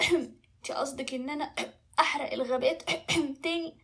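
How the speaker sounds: throat-clearing breaks up the words; coughing dragon. Acted. Dragon asks princess about burning forests again, coughing. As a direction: cough your way through the question.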